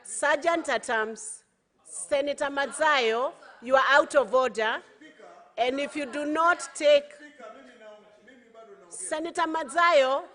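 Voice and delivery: loud stern command; shouting order order. Real, not acted. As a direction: bark it over the noise. Speaker shouting down a senator.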